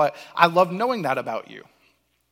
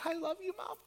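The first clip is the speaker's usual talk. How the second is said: put-on much higher, much softer sweet little kid voice; puppy dog eyes; 13 dB quieter than usual. Grounded kid handing mom a card, sugary tiny voice. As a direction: coo it like a guilty child with a card. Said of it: "with puppy dog eyes".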